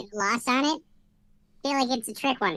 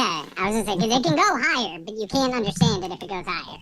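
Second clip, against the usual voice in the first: high-pitched voice filter; sped-up chipmunk voice effect. Real, not acted. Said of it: "We want the high-pitched one".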